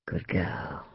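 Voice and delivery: very low, soft approval; satisfied murmur. A narrator's reading. Man pleased by his lover's promise, low murmur.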